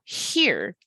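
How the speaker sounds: "here" with a long, drawn-out vowel; stretched-out vowel. Shown as a demonstration. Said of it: "has a stretched out vowel sound".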